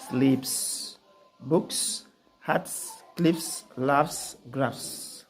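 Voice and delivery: "books", "hats" ending in a voiceless hissed "s"; dictionary pronunciation. Shown as a demonstration. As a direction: read each word slowly, ending in a crisp "s". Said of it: "these are voiceless".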